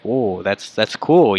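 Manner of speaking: acting out interest in something new; intrigued. Shown as a demonstration. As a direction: show you find the news cool. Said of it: "that's something interesting that I've never heard".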